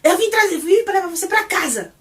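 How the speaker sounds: shouting. Retold or imitated. Kim yelling at Porsche to come home, a loud high shout. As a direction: blast it out in frustration. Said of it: "ele grita assim".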